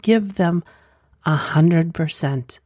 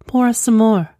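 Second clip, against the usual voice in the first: commanding; 5 semitones higher, 4 dB louder than usual. Acted. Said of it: "she commands".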